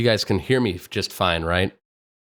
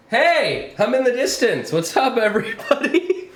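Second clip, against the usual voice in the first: high, loud distant call; far off; 11 semitones higher, 3 dB louder than usual. Pretend. Streamer mocking voice-actor distance effect, calling out. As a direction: call out as if across a room. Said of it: "Let's go into the distance".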